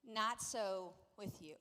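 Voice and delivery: slow, low, measured pronouncement; profound. Acted. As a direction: let each word land slowly. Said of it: "very profoundly, Jesus says".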